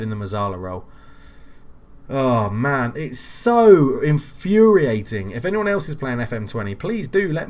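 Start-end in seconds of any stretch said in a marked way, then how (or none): 2.1-5.3 slow, louder frustrated groan; exasperated. Real, not acted. Streamer fuming at the game, slow exasperated. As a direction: stretch it out in fed-up anger. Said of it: "I'm absolutely furious at the game".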